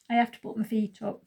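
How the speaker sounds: talking through hiccups; speech interrupted by hiccups. Real, not acted. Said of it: "Sorry, I've got hiccups".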